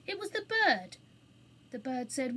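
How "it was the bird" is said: high, insistent explanation; earnest protest. A narrator's reading. Anthea explaining to the angry attendant, earnest protest. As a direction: earnestly shift the blame, louder and higher. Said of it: "said Anthea earnestly".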